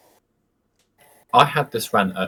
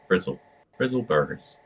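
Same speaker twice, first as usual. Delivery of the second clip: Bristol "Brizzle Burgers" with rolling r's, pitched up; Bristol accent retry; 4 dB quieter than usual. Shown as a demonstration. Working out a friend's accent, tentative Bristol burr. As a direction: have another go at broad Bristol. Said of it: "Trying to figure out how to say it".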